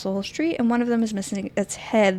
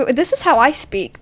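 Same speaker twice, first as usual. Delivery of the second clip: broken-English visitor voice; 3 semitones higher, 5 dB louder than usual. Acted. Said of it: "This is how I'm speaking".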